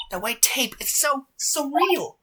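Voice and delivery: drawn-out, hushed unease; slow awed shiver. Acted. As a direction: let the chill slow the words. Maya spooked at crime tape.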